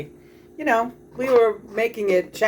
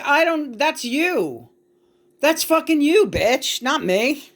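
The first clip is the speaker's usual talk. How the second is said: angry retort; 7 semitones higher, slower than usual. Retold or imitated. Retelling her reply to the friend, furious. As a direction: spit it back at her, fuming. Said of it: "I'm getting mad".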